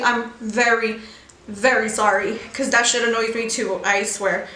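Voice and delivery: talking while chewing gum; words round a wad of gum. Real, not acted. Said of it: "I'm chewing gum right now".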